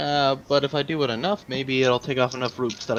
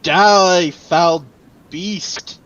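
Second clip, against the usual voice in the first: loud, high war cry; battle cry; 4 semitones higher, 13 dB louder, much slower than usual. Acted. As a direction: roar it at the beast. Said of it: "And I yell".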